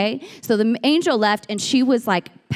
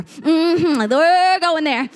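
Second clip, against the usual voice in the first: higher, drawn-out revved-up declaration; rising shout; 5 semitones higher, 3 dB louder, much slower than usual. Acted. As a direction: let the excitement build as you stretch it. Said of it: "the shout rises up in you".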